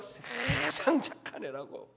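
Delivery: slow, soft mock mother's voice insisting; lightly voiced proud mother, drawn out slowly; a hint of a doting mother, slow and soft; imitating mother. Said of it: "저희 어머니는 막".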